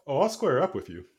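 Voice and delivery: cocky outlaw, playing it coy; Dixie. GM voices Dixie threatening.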